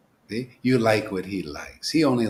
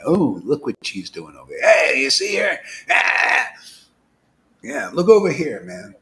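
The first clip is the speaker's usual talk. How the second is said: excited lookout; 3 semitones higher, 5 dB louder than usual. Pretend. One eye spying on Maya, calling out in mock excitement. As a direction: shout it like a lookout catching someone.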